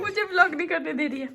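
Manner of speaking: mock whine. Mother to baby niece, mock-crying complaint. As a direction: whine that the baby won't let her vlog. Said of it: "mock complaint, cry heard".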